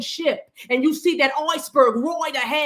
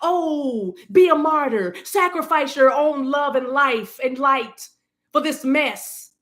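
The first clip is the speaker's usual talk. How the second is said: mock martyr advice; slower than usual. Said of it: "I would never sit here and tell you".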